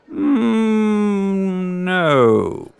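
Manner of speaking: high, giddy creature delight; creepy giggly voice. Acted. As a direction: coo over him like a mad collector. Shopkeeper refuses.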